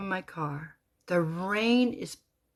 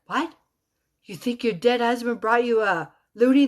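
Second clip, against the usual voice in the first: raised, scoffing question; mocking disbelief; 4 semitones higher, 6 dB louder than usual. Construction guys making fun of her sign, mocking. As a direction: imitate coworkers making fun. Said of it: "They started mocking me".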